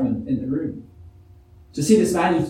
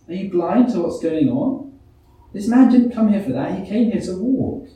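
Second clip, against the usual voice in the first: a disappointed crowd member questioning Jesus, mock indignant; baffled crowd; 3 semitones higher than usual. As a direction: protest like a bewildered bystander. Voices baffled crowd challenging Jesus.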